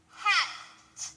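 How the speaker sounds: Hat ending in breath only; voiceless t. Shown as a demonstration. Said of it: "That's voiceless at the end".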